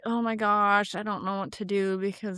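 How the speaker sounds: mock panic, drawn out and pleading; imitating a panicked patient. Patient freaking out about the nerve, mock panic. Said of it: "they're like, freaking out".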